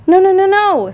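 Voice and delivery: high, urgent goose voice; alarmed goose. A narrator's reading. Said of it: "said the goose".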